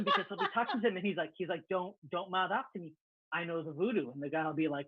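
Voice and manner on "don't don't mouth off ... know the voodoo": lightly voiced African warlord accent; mock a warlord's menace in a thick accent; a touch of put-on African accent; imitated thick accent. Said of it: "he basically has this thick accent".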